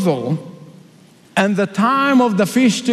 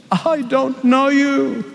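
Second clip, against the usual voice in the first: stern bridegroom; 5 semitones higher, slower than usual. Acted. Bridegroom rejecting.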